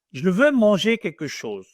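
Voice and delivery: neutral standard French. Shown as a demonstration. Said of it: "This is the normal French".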